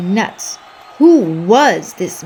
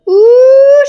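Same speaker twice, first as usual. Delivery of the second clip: giggle; 12 dB louder than usual. Acted. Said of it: "Shark giggled".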